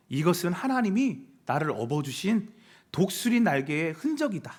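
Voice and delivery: measured, affirming declaration; declaration to oneself. Shown as a demonstration. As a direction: declare it to the mirror with conviction. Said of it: "이렇게 외쳐보세요". (거울 보며 다짐하듯 선언)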